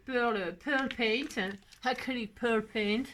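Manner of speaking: slow, careful English pronunciation; French speaker putting on an English accent. Shown as a demonstration. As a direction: show off your English accent a little. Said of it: "vous avez vu mon accent".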